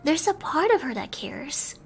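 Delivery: gentle storybook reading with hushed moments; bedtime story narration. A narrator's reading. Streamer reading a bedtime story to her chat, gentle narration. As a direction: read it like tucking listeners in, dropping to a hush now and then.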